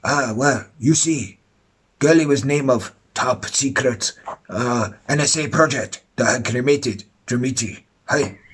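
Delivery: lightly put-on Japanese accent; slight mock Japanese voice; fake Japanese accent. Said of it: "fake Japanese, isn't he?".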